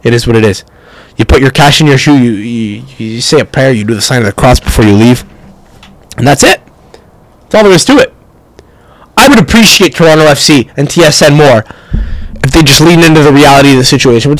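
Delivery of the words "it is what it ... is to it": resigned shrug. Retold or imitated. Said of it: "I shrug and say".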